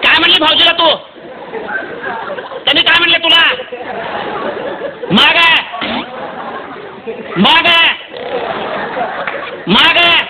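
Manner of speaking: scolding and consoling. Retold or imitated. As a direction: scold her, then tell her to stop crying.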